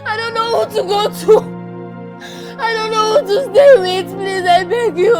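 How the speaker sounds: loud crying, pleading through tears; sobbing plea. Acted. Orphaned child sobbing to grandmother, crying plea. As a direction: sob it out, begging her not to leave.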